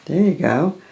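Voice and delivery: calm meditation guidance; guided meditation. Acted. Leads chakra meditation.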